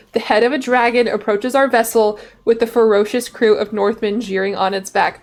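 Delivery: building a sea-monster tale; dramatic story narration. Acted. Streamer reading the monster encounter to viewers, dramatic story narration. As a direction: narrate it like an epic saga. Reads game text aloud.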